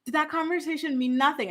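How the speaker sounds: imitating a nice, polite question; mildly sweet retold plea; staying nice. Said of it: "she still stays nice".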